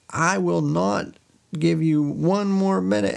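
high-pitched mock-stern refusal; hammed-up angry husband; refusing husband. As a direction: refuse emphatically, acting out the villain. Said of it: "he's like".

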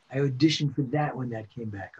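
ordinary talk

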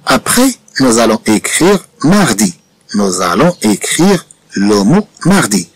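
very slow, each word spaced for writing; slow dictation. Shown as a demonstration. Teacher dictating the next word to pupils, very slow. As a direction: dictate it slowly to the class.

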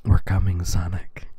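low then whispered; ASMR voice. Acted. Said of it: "an A S M R style".

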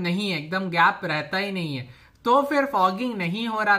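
muffled behind face covering; speaking with mouth covered; through a cloth mask. Real, not acted. Seen 4: Cloth mask covers mouth and nose throughout the labelled words.

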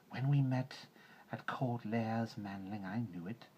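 ancient python speaking to Manling; python Kaa. A narrator's reading. Kaa voiced in reading.

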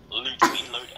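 put-on playful stab at a Scottish or Irish accent. Player clowning while fighting a loader, Scottish accent. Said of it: "pretty sure that's Scottish".

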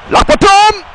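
high hyped shout of the move; move call. Real, not acted. Calling out signature move.

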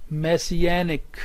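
slow "messianic", main stress on "anic". Shown as a demonstration. Teacher introduces a dictionary word, slow stress on -anic. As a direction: stretch out "messianic", leaning on the "an". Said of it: "primary stress, anic".

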